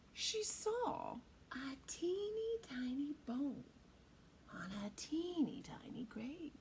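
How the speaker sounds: slow soft whisper; creepy whisper; suspense whisper. A narrator's reading. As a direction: build the scare in a hush. Suspense in churchyard.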